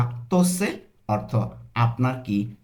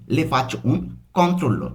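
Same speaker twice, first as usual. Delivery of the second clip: said quickly; much slower than usual. Shown as a demonstration. Teacher showing learners the doctor's line said quickly, run together. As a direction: run together without breaks. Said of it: "তাড়াতাড়ি যদি বলি".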